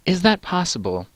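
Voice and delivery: high-pitched podcast interviewer; put-on high interviewer voice. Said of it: "the interviewer asks".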